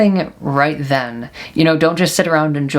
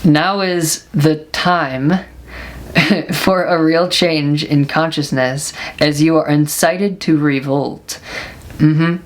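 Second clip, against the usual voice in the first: reading aloud. Shown as a demonstration. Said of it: "I'll read it to you".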